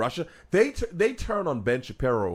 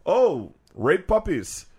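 slow drawn-out clipped quote; 4 semitones higher, 4 dB louder, much slower than usual. Retold or imitated. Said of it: "Just be".

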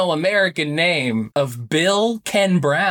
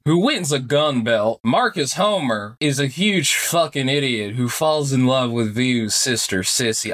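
put-on gather the kids round a campfire; hushed creepy legend telling; 5 semitones lower than usual. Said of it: "I can't keep this up".

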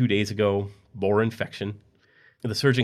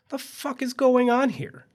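much higher, slow panicked cry; slower than usual. A narrator's reading. Husband discovering his missing leg, high panicked cry. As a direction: cry out in horror. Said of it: "he started to panic".

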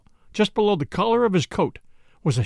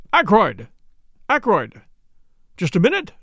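calling out; 3 semitones higher, 4 dB louder than usual. A narrator's reading. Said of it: "rattled the handle and called out".

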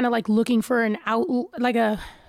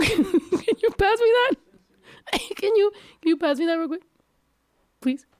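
laughing request; 8 semitones higher than usual. Real, not acted. Asking friend for chamoy.

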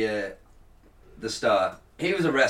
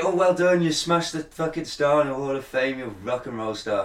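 mock congratulation. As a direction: congratulate him as if he were an idiot. Sarcastic congratulations to the vandal.

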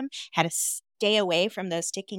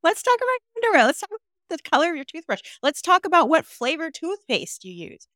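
excited; 7 semitones higher, 5 dB louder than usual. Real, not acted. Playful excited list of choices.

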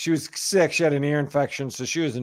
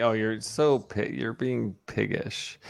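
quoting mom; 4 semitones lower, 4 dB quieter, slower than usual. Retold or imitated. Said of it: "Always say".

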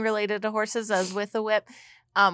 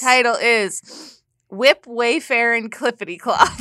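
hammed-up announcer title call; fighting game announcer; 4 semitones higher, 4 dB louder than usual. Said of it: "Your best announcer voice".

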